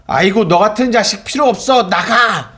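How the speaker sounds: angry parent. Retold or imitated. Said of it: "라고 말하는 그 부모의".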